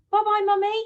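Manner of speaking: put-on high, loud child's goodbye call; boy calling goodbye to his mummy, high and loud. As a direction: call it out to mum as you leave. Boy calls goodbye to his mum.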